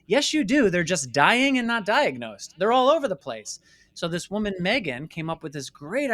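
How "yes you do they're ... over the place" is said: much higher and louder, forceful rebuttal; emphatic retort. Real, not acted. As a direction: hit back hard, indignant and loud. Rebutting government denial, heated.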